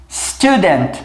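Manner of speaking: student with plain t; English student. Shown as a demonstration. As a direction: say student, t with tongue tip. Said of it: "Embaixo nós temos".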